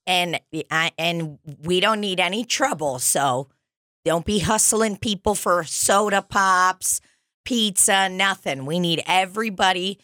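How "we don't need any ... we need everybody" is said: lightly voiced nagging chaperone; a hint of bossy field-trip parent; annoying parent voice. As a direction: warn the kids like a tiresome parent. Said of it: "an annoying parent voice".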